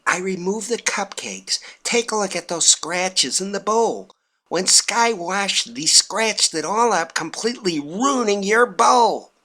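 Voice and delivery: wife showing her mom the scratched bowl, gleefully. Retold or imitated. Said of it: "my wife said with a glee".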